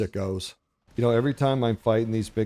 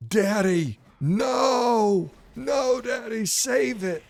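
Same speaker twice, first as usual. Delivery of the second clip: much higher imitated little kid crying out in panic; screaming kid; 12 semitones higher, much slower than usual. Little son begging daddy to save the wasp, high panicked child's voice. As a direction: play the small son pleading, pitched way up. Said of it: "he starts screaming bloody murder".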